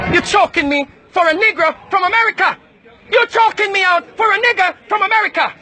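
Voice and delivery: high, strained protest under grip; distressed shout. Real, not acted. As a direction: cry out while being held. Being restrained, shouting protest.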